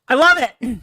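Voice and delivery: excited. Real, not acted. Thrilled with the new intro video.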